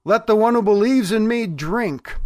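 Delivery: imitating a public cry, without a full shout. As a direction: call out an open invitation to a crowd. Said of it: "the voice cried out".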